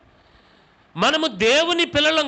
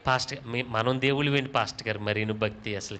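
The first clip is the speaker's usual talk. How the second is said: a hint of a scoffing churchgoer, low and soft; mocking doubter; 10 semitones lower, 7 dB quieter than usual. Pastor mimics a church member dismissing him, mocking and hushed. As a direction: mutter it like a sceptic tutting. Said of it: "మీరేమంటారు తెలుసా".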